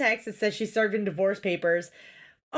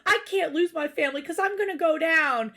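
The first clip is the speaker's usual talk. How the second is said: higher-pitched whiny imitation of a husband; mock sobbing; 5 semitones higher than usual. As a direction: replay his pleading as a mocking whine. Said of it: "He starts sobbing".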